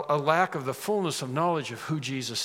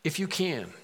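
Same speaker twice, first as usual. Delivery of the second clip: pleading; 6 semitones higher, slower than usual. Shown as a demonstration. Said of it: "It's a plea".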